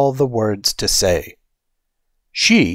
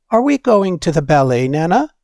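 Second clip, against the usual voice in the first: put-on higher, quick, excited child's question; eager little girl; 6 semitones higher, faster than usual. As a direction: ask Nana brightly, can't wait. Grace asks eagerly.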